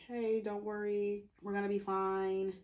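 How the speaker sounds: mildly soothing, slightly slowed retelling; lightly voiced calm reassurance; reassuring. Friends settling everyone down in the forest, lightly reassuring. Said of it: "They're trying to calm everyone down".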